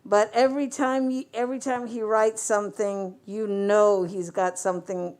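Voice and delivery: muffled through a face mask. Real, not acted. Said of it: "talking through this mask".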